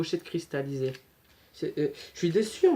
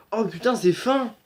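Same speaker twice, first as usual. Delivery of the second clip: surprised; 6 semitones higher, 6 dB louder than usual. Real, not acted. Surprised by the thin case.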